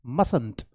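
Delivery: mustn't said as MUSS-nt, the first t silent; correct pronunciation of mustn't. Shown as a demonstration. Teacher tells students exactly how to say mustn't. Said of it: "क्या बोलना है आपको?".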